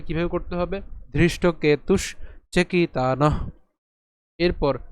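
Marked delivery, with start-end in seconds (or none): 1.1-3.5 ধৃষ্টকেতুষ চেকিতানঃ slowly, breath released at the end; correct visarga. Shown as a demonstration. Teacher showing pure pronunciation, slow চেকিতানঃ with breathy ending. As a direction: end চেকিতানঃ on an audible puff of h. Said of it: "তাহলে উচ্চারণ যদি শুদ্ধভাবে করতে চাই".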